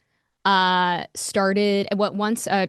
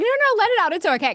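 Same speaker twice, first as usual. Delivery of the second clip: Molly comforting; 13 semitones higher, 5 dB louder, faster than usual. Retold or imitated. Friend soothing the crying speaker on Zoom, high reassuring voice. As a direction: play the friend hushing a crying caller.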